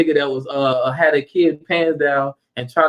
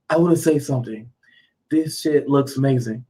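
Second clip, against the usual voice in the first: ignorant guy voice; 3 semitones lower than usual. Retold or imitated. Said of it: "He talked like that".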